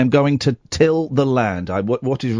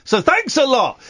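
sarcastic; 8 semitones higher than usual. Acted. Sarcastic outburst at Brexit.

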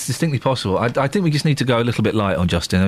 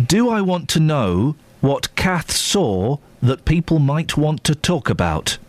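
talking to Siri; slower than usual. Real, not acted. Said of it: "Didn't sound too sure".

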